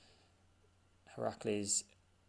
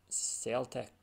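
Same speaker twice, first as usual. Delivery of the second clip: mock Scottish accent; 3 semitones higher than usual. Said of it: "I can't stop".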